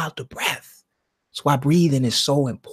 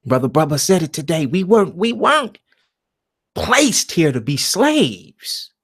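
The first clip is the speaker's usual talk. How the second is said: ordinary delivery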